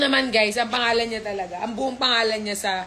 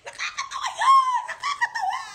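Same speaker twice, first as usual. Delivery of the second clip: laughing hard. Real, not acted. Owner laughing at her own dog-name joke, shrieking with laughter.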